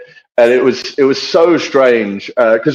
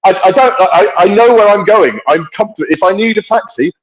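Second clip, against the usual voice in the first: retold exasperation; 6 semitones higher than usual. Retells fending off pestering taxi driver.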